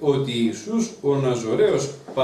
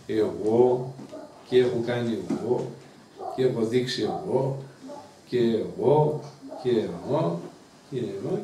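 boastful; 3 semitones lower, slower than usual. Retold or imitated. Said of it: "βλέπει σήμερα ανθρώπους και λένε".

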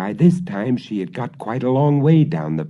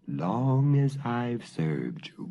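growled reply; 3 semitones higher, 6 dB quieter, slower than usual. Acted. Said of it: "growled the dog".

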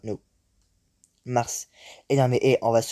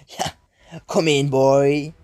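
taunting lure; 4 dB louder, much slower than usual. Acted. Luring a smaller ball to eat.

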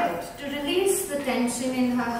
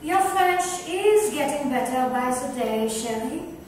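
playful, louder teasing; 3 semitones higher, 3 dB louder than usual. Acted. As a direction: tease your friend fondly. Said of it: "teased Violet".

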